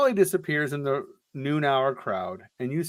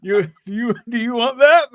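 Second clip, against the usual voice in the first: menacing taunt; 8 semitones higher, 5 dB louder than usual. Acted. Mock threat to reader.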